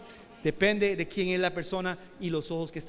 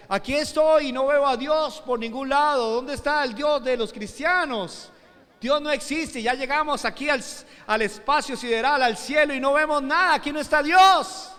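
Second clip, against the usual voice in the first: higher-pitched, ringing mock challenge; defiant atheist's declaration; 6 semitones higher, 4 dB louder than usual. Preacher voicing Soviet atheists in space, defiant proclamation. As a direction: imitate a scoffer proclaiming there's nothing out here. Quoting mocking atheist cosmonaut.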